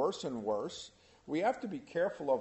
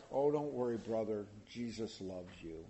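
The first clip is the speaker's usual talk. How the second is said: mock soothing reassurance; 6 semitones lower, 5 dB quieter than usual. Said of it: "It's not like".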